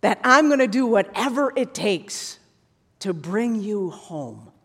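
slow, tender promise; tender God's voice. Retold or imitated. Preacher voicing God's love to listeners, slow and tender. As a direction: speak it slowly like a loving father. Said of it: "Predestination is God saying".

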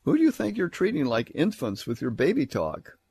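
lightly acted scornful question; sarcastic. Nobles answering Isaiah's preaching, mildly acted sarcasm. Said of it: "they are sarcastically saying".

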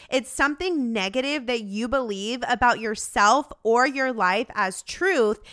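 ordinary delivery

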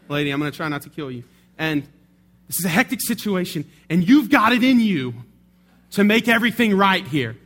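imitating rising pep talk.

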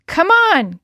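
rally her partner; urging. A narrator's reading. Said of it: "Kelsey urged".

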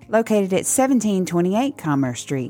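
brisk, upbeat podcast ad read; sponsor read. Real, not acted. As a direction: rattle off the sponsors, then thank the listeners. Reads podcast sponsor credits.

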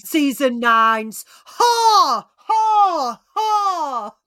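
high, loud hammed-up ha ha ha; mock cackle. Host mocks the reunion, high hammed-up cackle. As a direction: cackle it out like a gleeful villain. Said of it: "mock laugh at reunion drama".

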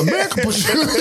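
high-pitched, through real laughter; laughing. Real, not acted. Joking to co-host about who was first, laughing. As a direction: crack up on the words. Cracks up at own joke.

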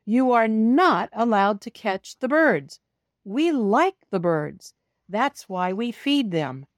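scolding. Acted. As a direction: tell the cat off firmly, word by word. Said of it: "they scold".

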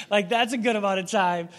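laughing through a wry joke. Real, not acted. Pastor laughing at the agency's deadline. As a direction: chuckle as you ask for forty days.

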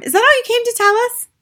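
very high, loud put-on mother voice; ratty. A narrator's reading. Mother to teacher over missed program, ratty. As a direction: complain in a piercing, testy voice. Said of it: "ratty about missing her program".

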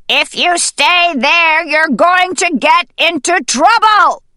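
high-pitched, insistent call; urgent warning. Acted. Hidden voice orders hen out of grave, urgent warning.

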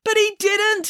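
high-pitched frantic objection; mild acted yell. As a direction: protest in a stretched high voice. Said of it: "yelled the news director".

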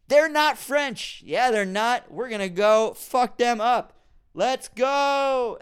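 high, loud, slow hammed-up soldier; mock troop rally. French soldiers rallying to fight, hammed-up loud battle cry. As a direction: pump up the troops like a cartoon army. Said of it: "And they'd be like".

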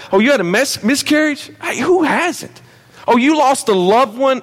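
mock a careless, dismissive voice; mock dismissive Jesus. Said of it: "telling us from heaven".

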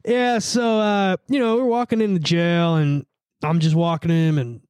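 lightly imitated cop giving a slow account; drawn-out cop report, mildly put on; dorky cop tone. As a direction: recount it haltingly like a self-important officer. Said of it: "they always have that, like, tone".

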